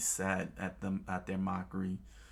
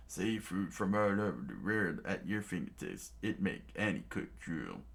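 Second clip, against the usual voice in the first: lightly voiced chef. Another chef dreaming.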